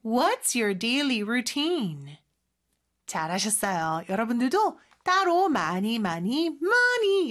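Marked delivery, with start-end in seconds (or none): 0.0-2.2 slow repeat with "routine" turned upward; rising question ending. Shown as a demonstration. Teacher echoing the model for learners, "routine" rising. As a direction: say it slowly, lifting the end of "routine". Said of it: "끝을 올려줘야 되겠네요".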